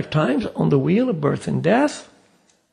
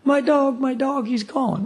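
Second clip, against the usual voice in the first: mildly acted lament, pitched up; mock distraught; 5 semitones higher than usual. Grieving owner tells a passerby about his dog, mock distraught. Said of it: "he's crying".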